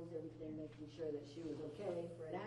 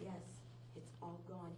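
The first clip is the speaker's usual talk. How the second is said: softer, calm reply; calm quiet confirmation; 6 dB quieter than usual. Retold or imitated. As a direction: say it quietly and calmly, like the grandma. Grandma quietly confirms to the guide.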